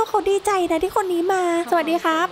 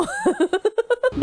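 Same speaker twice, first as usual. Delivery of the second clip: burst of laughter; 8 semitones higher than usual. Real, not acted. Sudden laugh at game glitch.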